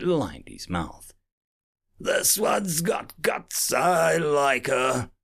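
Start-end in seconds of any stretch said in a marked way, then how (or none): 2.0-5.1 breathless amused pirate, slow; laughing pirate. A narrator's reading. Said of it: "said the Astrax between breaths".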